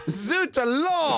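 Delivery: high, slow hammy French exclamation; French accent. Pretend. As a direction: ham up a French chef's zut alors. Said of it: "Is that better?".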